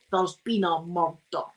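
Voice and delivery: thickened Scottish, drawn out; put-on Scottish accent. Showing how every Scot quotes Taggart, in put-on Scottish. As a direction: do the TV detective's catchphrase in broad Scottish. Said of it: "we put on a Scottish accent".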